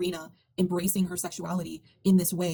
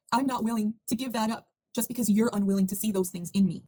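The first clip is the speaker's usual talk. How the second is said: on the verge of tears; 3 semitones higher than usual. Real, not acted. Viewer moved by the breakup explains its message, near tears. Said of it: "sorry, I'm gonna cry".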